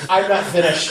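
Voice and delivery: usual speaking voice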